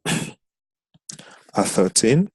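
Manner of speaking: at thirteen stretched out very slowly; "At thirteen" drawn out word by word; slow, drawn-out repeat. Shown as a demonstration. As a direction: say "At thirteen" again, dragging each syllable. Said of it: "this, at thirteen".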